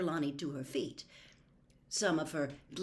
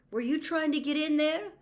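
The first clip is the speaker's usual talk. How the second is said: pressing question; 12 semitones higher, 7 dB louder than usual. Acted. Harry presses urgently.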